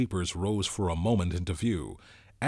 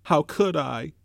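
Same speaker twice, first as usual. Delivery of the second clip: put-on higher, louder indignant boy; indignant cry; 8 semitones higher, 7 dB louder than usual. A narrator's reading. Piggy answering Ralph's reproach, indignant and louder. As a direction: cry out, wounded and defensive. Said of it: "cried Piggy indignantly".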